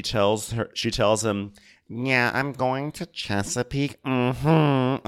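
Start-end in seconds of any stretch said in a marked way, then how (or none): 1.9-5.1 high, slow, smug boast; bragging. Retold or imitated. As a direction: show off to a child. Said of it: "Stop bragging to your child".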